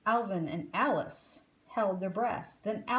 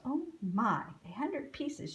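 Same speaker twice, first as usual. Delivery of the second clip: sighed; 4 semitones higher than usual. Acted. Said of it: "she sighed".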